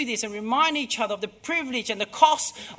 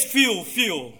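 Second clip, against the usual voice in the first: angel calling; 2 semitones lower, 4 dB louder than usual. Retold or imitated. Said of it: "and the angel cries".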